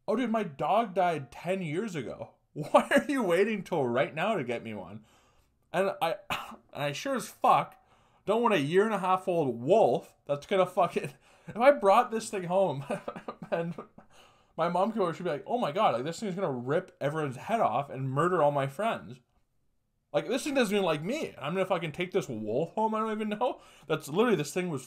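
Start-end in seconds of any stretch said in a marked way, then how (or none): 0.1-5.0 incredulous retold complaint, pitched up; exasperated protest. Son to Dad about the late replacement dog, exasperated. 15.5-23.6 higher-pitched, hammed-up worry; mock alarm. Imagining the wolf loose at home, mock alarm.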